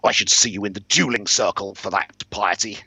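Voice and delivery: affronted aristocrat, mildly snarling; snarled threat. Acted. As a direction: snarl a challenge to a duel. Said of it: "he snarled".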